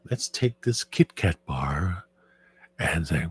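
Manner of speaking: slow, soft ASMR voice. Shown as a demonstration. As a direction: draw it out gently. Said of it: "the A S M R voice".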